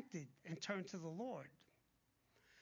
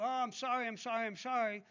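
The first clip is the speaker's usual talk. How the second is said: mock apology; 3 semitones higher, 6 dB louder than usual. Mocks people who say sorry.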